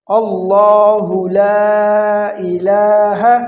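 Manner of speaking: slow recitation, اللہ with a full dark L; heavy Allah. Shown as a demonstration. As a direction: stretch اللہ لا الہ, heavy on اللہ. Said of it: "لفظ اللہ جو ہے یہ پر پڑھا جائے گا". (اللہ کو پُر کر کے تلاوت)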